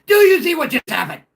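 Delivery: hammed-up fan demanding an answer; mock outraged fan. Caller voicing Vikings fans about Darnold, high mock outrage. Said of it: "They're gonna be like".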